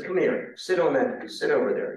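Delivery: mildly exasperated retold order. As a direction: act out a president losing patience. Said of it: "Lincoln finally gets exasperated".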